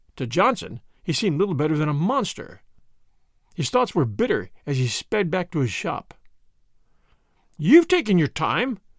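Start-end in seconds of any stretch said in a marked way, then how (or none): 7.6-8.8 reproving, chiding, reproachful tone. A mother-in-law looks down the stairs as her son-in-law enters: reproachful. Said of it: "said his mother-in-law reproachfully".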